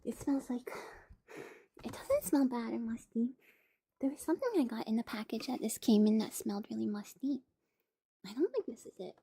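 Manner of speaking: soft ASMR whisper; hushed and close. Real, not acted.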